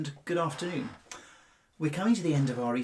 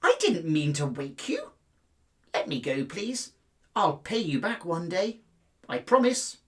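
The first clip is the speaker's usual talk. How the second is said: lightly voiced mouse pleading; 2 semitones higher, 4 dB louder than usual. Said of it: "squeaked Mouse".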